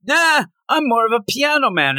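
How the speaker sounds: hammed-up Australian. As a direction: ham up the Australian stereotype, shouting. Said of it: "probably Australian".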